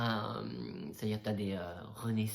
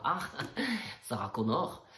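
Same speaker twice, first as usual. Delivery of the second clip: put-on German accent; 3 semitones higher, 4 dB louder than usual. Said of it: "avec un accent allemand".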